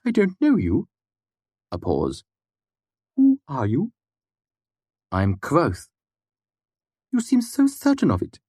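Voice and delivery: put-on high, muffled odd old man; an oddball asking from behind a door; eccentric old man. A narrator's reading. Puppet voiced.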